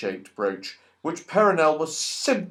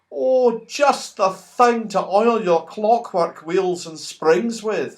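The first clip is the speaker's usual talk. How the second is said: delighted; 5 semitones higher, slower than usual. Acted. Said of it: "said Silky in delight".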